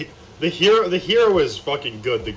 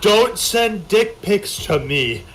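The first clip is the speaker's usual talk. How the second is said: mock Hulk voice; 6 semitones higher, much slower than usual. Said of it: "It's like".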